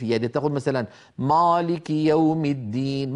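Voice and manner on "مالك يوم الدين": "مالك" with a dark, backed, heavy long aa; wrongly heavy alif. Shown as a demonstration. Teacher shows students an error to avoid, heavy alif. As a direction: say "مالك" thickened, as the mistake. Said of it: "ما يصح".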